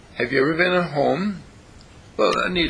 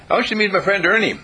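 cheerful introduction; 6 semitones higher, 3 dB louder, much faster than usual. Pretend. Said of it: "and she says".

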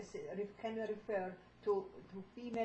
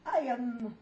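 louder declaration; speaking up when called on; 6 semitones higher, 10 dB louder than usual. Real, not acted. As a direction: say it out boldly. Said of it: "what do you say".

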